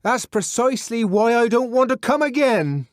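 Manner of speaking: high, loud indignant reply; indignant shout from inside; shouted retort. A narrator's reading. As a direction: throw it back through the door. Shouted argument through a door.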